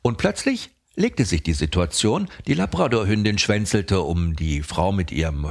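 lightly mock audiobook narration; audiobook narrator. Retelling the dog walk to a friend as a mock audiobook narrator. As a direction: tell it like a fairy tale. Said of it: "ich mach mal Erzähler, oder wie bei so einem Hörbuch".

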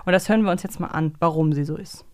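ordinary talk

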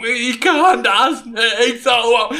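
high, very slow helpless whine; whiny housekeeper. Retold or imitated. Housekeeper refusing to clean the bathroom, high slow whine. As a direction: stretch it into a pitiful high wail. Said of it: "so, keine Ahnung".

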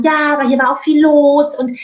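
hammed-up defensive employee; mock justification. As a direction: babble excuses at the customer. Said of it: "in eine Rechtfertigung zu gehen".

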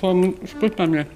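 langsam, beim Kauen gesprochen; mit vollem Mund. Real, not acted. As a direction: durch den Bissen nuscheln. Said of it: "Muss einfach mit vollem Mund sprechen". (mit vollem Mund)

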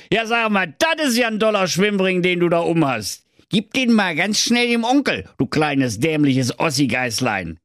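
high, wheedling villain voice; sly wizard. Acted. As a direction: coax them like a sleazy uncle. Wizard coaxing the kids.

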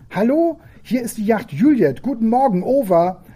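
put-on high, loud, bright child greeting; little girl's voice. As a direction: greet them like a delighted small girl. Girl greeting new voice.

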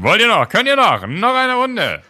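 high, loud fairground barker call. Retold or imitated. Imitating a fairground ride operator calling to riders, loud and high. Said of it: "wie auf der Kirmes, wenn einer sagt so".

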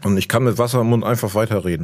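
talking with a mouthful of water; Wasser im Mund. Real, not acted. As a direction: speak around water held in the mouth. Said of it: "ich trinke jetzt einen Schluck Wasser". (mit Wasser im Mund sprechen)

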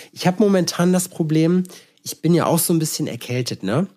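nasal, stuffed-up cold voice; blocked nose. Real, not acted. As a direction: talk through a blocked nose. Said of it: "du redest ein bisschen nasal".

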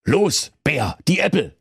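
high, urging wolf. A narrator's reading. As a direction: hurry the bear along. Wolf orders bear.

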